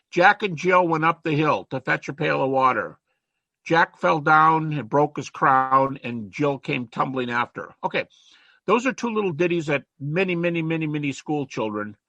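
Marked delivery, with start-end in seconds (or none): 0.1-7.7 recited nursery rhyme. Shown as a demonstration. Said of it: "Here's another one".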